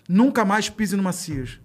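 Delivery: slow, deliberate mock warning; slow stern warning. Security chief slowly warning the boy never to return. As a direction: drag each word out like a stern final warning.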